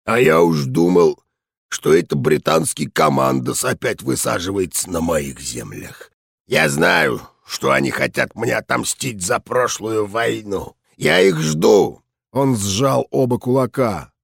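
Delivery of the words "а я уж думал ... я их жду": put-on gruff, raspy old veteran voice; a hoarse general brooding on old enemies. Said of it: "хриплым голосом сказал мужчина".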